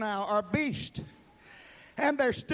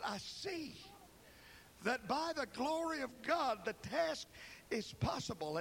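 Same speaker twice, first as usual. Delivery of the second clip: much softer, reverent and hushed; hushed awe; 12 dB quieter than usual. Acted. Prophet confessing his vision, hushed and reverent.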